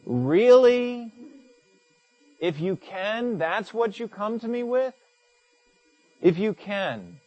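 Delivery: high, mock disbelief; Jesus turning the question back, disbelieving; incredulous. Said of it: "you'd say".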